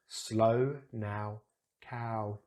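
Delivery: slow with o, now and cow with ow; model words. Shown as a demonstration. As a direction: contrast the vowels. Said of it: "So slow ... odd one out".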